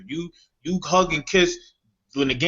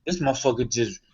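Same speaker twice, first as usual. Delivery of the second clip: rising disbelief. Retold or imitated. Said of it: "it's like".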